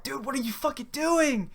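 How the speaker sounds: high-pitched retold incredulity; mock disbelief. Friend reacting to his roommate's stunt, retold disbelief. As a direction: question your buddy in mock astonishment.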